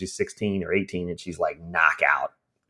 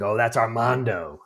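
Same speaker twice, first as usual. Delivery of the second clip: put-on dreamy old lady; 2 semitones higher, slower than usual. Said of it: "she says it very, like, extract".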